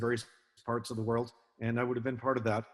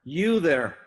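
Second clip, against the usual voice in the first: loud, raised retold roar across a yard; roared command; 4 semitones higher, 7 dB louder than usual. Old sea officer to a man in danger, roaring. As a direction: roar it out to halt someone, as retold. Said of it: "He roared".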